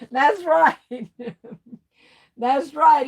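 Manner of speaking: high, loud laughing agreement. Real, not acted. Reading chat about the soup, laughing loud. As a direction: laugh it out, delighted.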